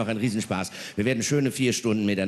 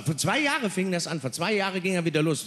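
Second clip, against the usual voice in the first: ordinary delivery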